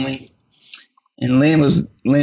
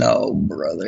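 lower, weary resigned groan; low groan of dread; 7 semitones lower, slower than usual. Retold or imitated. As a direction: sink into resignation. Husband dreading the outcome.

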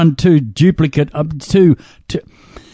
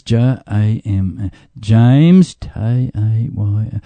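slow spelling out; 4 semitones lower, much slower than usual. Shown as a demonstration. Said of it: "I'm determined to get these right".

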